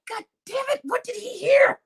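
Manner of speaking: high, laughing panic; high-pitched laughing dismay; panicked laughing. Retold or imitated. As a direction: squeal out the worry while laughing. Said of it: "I was like".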